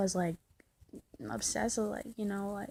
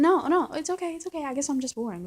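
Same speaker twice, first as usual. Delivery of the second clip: imitating her upset, higher pitched; mock huffy girlfriend; 7 semitones higher, 5 dB louder than usual. Girlfriend brushing off the boyfriend on the phone, huffy imitation. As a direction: put on her hurt, dismissive protest. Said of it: "she gets mad at me".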